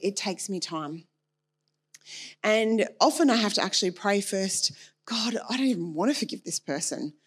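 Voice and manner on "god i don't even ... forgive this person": whispered prayer. Retold or imitated. Quoting her own prayer.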